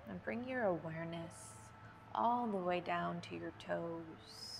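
unhurried yoga breathing cues with long pauses; measured, spacious yoga nidra instruction; guided meditation. Real, not acted. Leads yoga nidra breathing for sleep.

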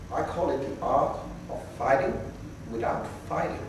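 soft, unhurried, hushed reply; very calm. Acted. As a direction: play a serene martial artist, dropping almost to a whisper. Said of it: "Bruce Lee very calmly says".

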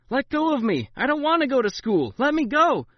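put-on loud, high desperate child shouting; struggling screams. A narrator's reading. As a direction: fight them off, screaming.

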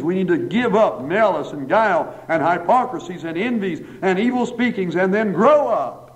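rhythmic list climbing to a high finish; emphatic preaching. Real, not acted. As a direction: drive each item home, pitch rising to the end. Preacher builds through a list.

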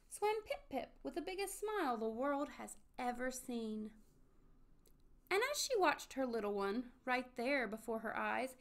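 flowing, rhythmic storybook reading; story narration. A narrator's reading. Narrator tells of mommy finding Pip-Pip, storybook narration. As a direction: read the rhyme to children, lifting at the finish.

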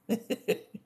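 short high chuckle; little laugh between lines. Real, not acted. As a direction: let out a brief light laugh. Chuckles after reading Philip's reply.

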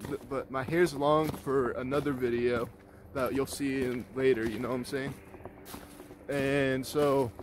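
breathless while walking; winded, catching breath. Real, not acted. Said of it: "sorry I'm out of breath".

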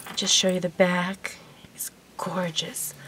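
soft, awed whisper. Real, not acted. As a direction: hush it like showing a treasure. Hushed while showing the item.

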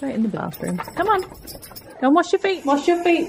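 calling to the dogs. Real, not acted. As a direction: send the muddy dog off to wash.

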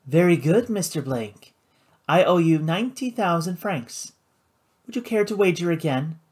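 smooth, refined casino hostess, pitched a touch up; lightly voiced hostess. Karina to Paladin, cool and poised.

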